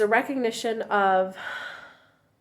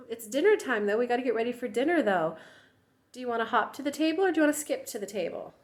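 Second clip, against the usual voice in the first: a hint of a sweet, patient parent; gentle parent voice; 2 semitones higher than usual. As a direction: coax the toddler kindly, a bit fast. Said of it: "I didn't mean that mockingly".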